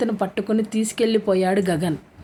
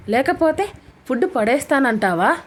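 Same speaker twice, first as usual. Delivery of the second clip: snapping back; 4 semitones higher than usual. Acted. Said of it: "ఆమె గయ్యమంది".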